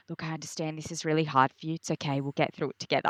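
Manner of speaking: a light take on a patient husband; soothing. Retold or imitated. Husband calming his crying pregnant wife, soft and reassuring.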